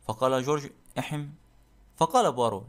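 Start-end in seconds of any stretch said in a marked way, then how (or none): 1.0-1.3 throat-clearing. Acted. Servant hems before answering his master.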